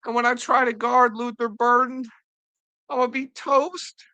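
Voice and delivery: high fretful mock crying voice; hammed-up crying rookie, squeaking at the end; mock whimpering. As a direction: whine it high like a scared rookie. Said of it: "he's bawling".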